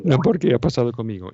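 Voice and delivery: lightly voiced Rita Hayworth despair; mock film-star lament. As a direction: play it like a melodramatic old-movie heroine, lightly. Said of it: "así como Rita Hayworth".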